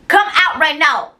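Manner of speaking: high, slow, emphatic order; retold screaming. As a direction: imitate the director yelling, each word drawn out. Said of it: "screaming at me and everything".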